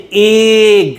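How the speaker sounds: এগ said slowly with a clear open e sound; এগ pronounced carefully for students; pronunciation demo. Shown as a demonstration. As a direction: stretch out এগ so its opening vowel is heard. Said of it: "প্রোনাউন্সিয়েশনটা কেমন আসছে".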